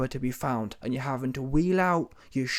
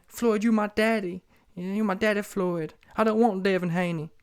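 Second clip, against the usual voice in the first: mock pleading in a raised pitch; begging; 6 semitones higher than usual. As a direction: imitate someone pleading for protection, voice high.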